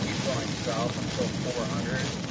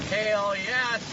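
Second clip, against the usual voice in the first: gleeful pun, pitched up high; excited cheer; 7 semitones higher than usual. Real, not acted. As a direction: cheer it out like a win. Hail pun while chasing storm.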